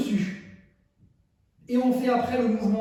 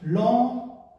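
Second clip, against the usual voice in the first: "lent" stretched out long; slow, sustained dance cue; 2 semitones higher than usual. Shown as a demonstration. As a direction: draw out each "lent" to pace a slow movement. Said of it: "lent et après deux rapides".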